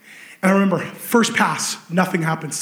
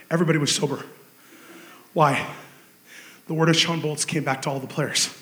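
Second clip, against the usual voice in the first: sober hush; 8 semitones lower, 6 dB quieter than usual. A narrator's reading. Solemn retelling after win.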